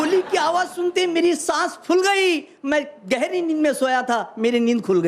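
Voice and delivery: measured stage recital of humorous verse; phrase by phrase to an audience; comic poem recitation. Acted. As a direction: declaim it like a hasya kavi.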